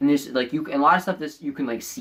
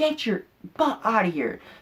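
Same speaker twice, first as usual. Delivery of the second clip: put-on bratty, annoyed, angry, pitched-up kid voice; 9 semitones higher than usual. Retelling a dodgeball game, the speaker quotes an annoying kid, imitating an angry kid. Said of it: "he was so angry".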